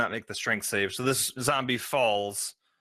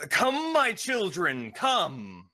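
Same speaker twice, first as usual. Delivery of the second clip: high drawn-out summons, falling away; mock shout; 8 semitones higher, much slower than usual. Game master voices a figure summoning his children, mock shout. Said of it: "just shouts".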